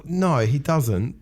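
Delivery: drawn-out, high-pitched denial. Real, not acted. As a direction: let the voice climb high and stretch it. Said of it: "that went really high pitched".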